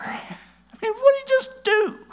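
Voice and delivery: high, breathy laughing aside; laughing disbelief. Real, not acted. Preacher laughing to congregation in amused disbelief. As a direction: laugh at how obvious it is.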